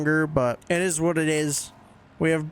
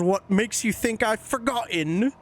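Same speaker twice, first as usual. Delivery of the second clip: a light imitation of a posh English accent, slightly higher; 5 semitones higher than usual. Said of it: "her English accent".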